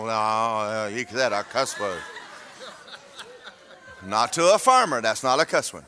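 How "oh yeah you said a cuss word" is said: mock offended listener.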